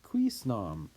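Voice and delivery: acted incredulous questioning; emphatic disbelief. Shown as a demonstration. Teacher showing what nam adds, incredulous emphasis. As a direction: lean hard on each question as if you can't believe it. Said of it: "it just adds more emphasis".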